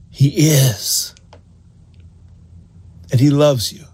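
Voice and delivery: a hushed whisper of conviction; whispered, certain. Real, not acted. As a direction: drop to a whisper to drive it home. Emphatic close of preaching point.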